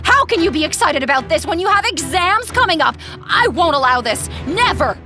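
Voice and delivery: outraged, emphatic scolding; angry mother. Acted. Mother forbids her daughter before exams, angrily scolding. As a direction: lay down the law, indignant.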